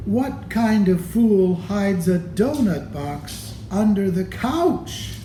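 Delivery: mocking brother. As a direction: taunt him like a big brother.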